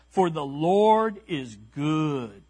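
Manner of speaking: slow, weighty, stress on Lord; emphatic declaration. Shown as a demonstration. Preacher showing the congregation how to read the verse, emphatic. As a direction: proclaim "For the Lord is good" slowly, leaning on "Lord". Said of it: "you need to say it that way".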